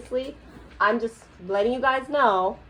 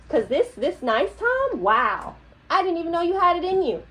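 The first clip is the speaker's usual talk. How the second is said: condescending; 3 semitones higher than usual. Real, not acted. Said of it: "condescending and immature".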